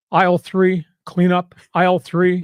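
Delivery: lightly imitated store intercom, level and projected; a hint of tannoy call, evenly pitched; store intercom announcement. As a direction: mimic a supermarket announcer calling for cleanup. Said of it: "on the intercom".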